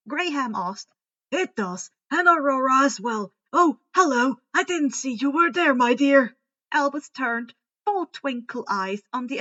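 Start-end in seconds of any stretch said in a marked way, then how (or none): 1.3-6.4 louder, delighted hello; pleased surprise. A narrator's reading. Headmaster noticing the professor, louder pleased surprise. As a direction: greet her as if just noticed.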